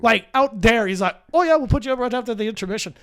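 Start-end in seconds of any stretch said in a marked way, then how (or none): 1.3-2.9 quick, bad Irish accent; a clumsy stab at an Irish accent; terrible Irish accent. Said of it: "I do terrible Irish accent".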